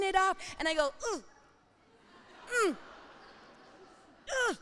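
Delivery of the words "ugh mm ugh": straining grunts. Retold or imitated. Straining to rip lattice.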